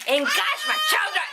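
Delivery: high, excited exclamation; a thrilled cry. Real, not acted. Excited about chocolates.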